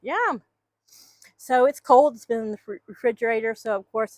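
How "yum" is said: high happy yum for the hen; voicing the hen. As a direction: squeal a little yum for her. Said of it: "she's like".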